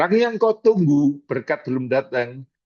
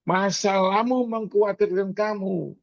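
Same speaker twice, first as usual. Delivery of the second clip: usual speaking voice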